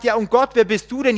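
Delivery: loud, high and fast; challenging question. Acted. Man demanding who God is, loud and fast.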